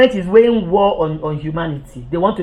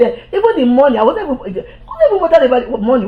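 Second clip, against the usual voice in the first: laughing; 4 semitones higher, faster than usual. Real, not acted. Laughs off the lost money.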